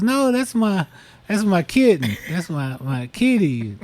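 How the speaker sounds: high-pitched protest, dropping by the end; pleading protest. Retold or imitated. Girlfriend stops boyfriend from chasing her kitten, high protest. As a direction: cry out to save the pet.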